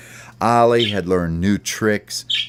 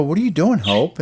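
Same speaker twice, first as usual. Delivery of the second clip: curious bird voices; 9 semitones higher than usual. Acted. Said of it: "And they go".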